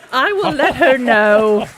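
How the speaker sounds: laughing. Real, not acted. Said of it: "he got you to bite on that so hard".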